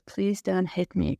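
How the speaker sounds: a touch of pleading, near normal voice; understated begging, first time through; mild retold plea. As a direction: plead lightly, not yet broken. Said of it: "just starts to cry and says".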